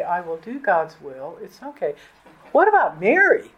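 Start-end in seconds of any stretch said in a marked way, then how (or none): 0.0-1.9 mildly calm, settling softer at the end; understated, unruffled assent; calm acceptance. Acted. Preacher voicing someone waking to accept God's will, calmly. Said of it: "just very calmly say".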